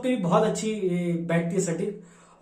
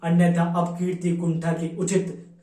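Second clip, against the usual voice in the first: declamatory Hindi verse in Kalyug's words; poem recitation; 4 dB louder, slower than usual. Acted. Kalyug declares his intentions before Brahma, declamatory poem recitation. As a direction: declaim the verse in measured, rhythmic lines.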